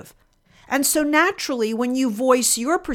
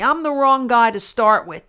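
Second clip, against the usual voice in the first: a louder, mock-tough comeback; retold loud retort; 5 dB louder than usual. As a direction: imitate him raising his voice. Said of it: "he said very loudly".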